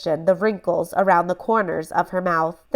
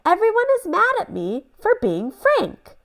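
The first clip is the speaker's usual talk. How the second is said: put-on upset boy; 12 semitones higher than usual.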